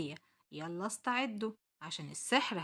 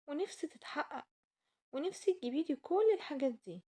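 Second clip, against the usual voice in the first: put-on whiny little girl; 4 semitones higher than usual. Child Aysel begging her mother.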